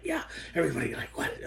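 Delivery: quick, hushed phone whisper; whispering back. Acted. Imitating the other person on the phone, whispering back. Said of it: "the other person starts whispering too".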